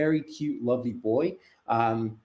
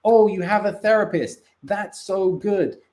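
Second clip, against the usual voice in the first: mocking trendy voice; 6 semitones higher, 4 dB louder than usual. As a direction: lightly parody people praising therapy. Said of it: "to be like".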